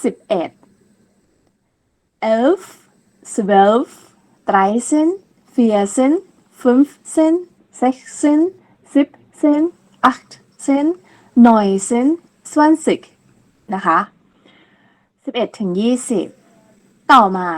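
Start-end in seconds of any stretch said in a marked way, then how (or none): 2.4-13.0 each number clipped apart for the class to repeat; teacher leads a German counting drill; German count to ten. Shown as a demonstration. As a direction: count one by one so they can echo. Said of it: "ท่องตามนะคะ".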